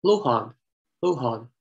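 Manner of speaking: Lohan with "loh" first and a long second vowel; variant pronunciation. Shown as a demonstration. Lecturer giving a variant heard in Westmeath, deliberate pronunciation. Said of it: "sometimes pronounced".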